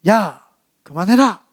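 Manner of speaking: mildly voiced slow command; retold call to make bullies stop; firm telling-off. Girl stepping in for a bullied classmate, firm telling-off. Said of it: "탁 이야기를 했어요".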